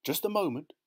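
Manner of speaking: high, abrupt halt; sudden interjection. A narrator's reading. Husband halting the car for a forgotten present, sudden interjection. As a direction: stop them suddenly. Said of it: "Mister Foster said suddenly".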